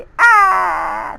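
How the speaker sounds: loud high crying shout; hammed-up child's wail; fake wail. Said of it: "Anil फिर से शुरू हो गया रोने के लिए".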